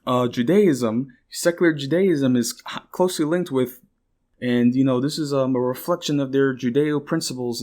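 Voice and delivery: lightly voiced smug commentator; a hint of a pompous pundit; quoting the history YouTuber with mild mockery. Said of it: "for, like".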